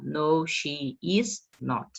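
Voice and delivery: No, she is not said slowly, each word separate; teacher showing the uncontracted answer; slow full form. Shown as a demonstration. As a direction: spell out is not as two words. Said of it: "Posso colocar".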